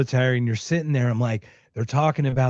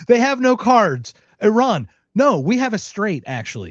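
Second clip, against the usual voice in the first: mock presidential pronouncement, slow opening; President Trump; 8 semitones higher than usual. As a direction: play Trump declaring it, then drop off at the end. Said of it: "President Trump".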